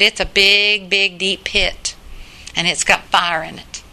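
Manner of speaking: lightly voiced earnest four-year-old; little girl's voice. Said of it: "She talks in this little, little four-year-old voice".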